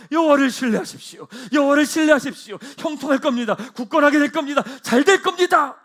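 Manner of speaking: triumphant loud proclamation; bold proclamation. Acted. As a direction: shout it like a king rallying troops. Jehoshaphat proclaims boldly.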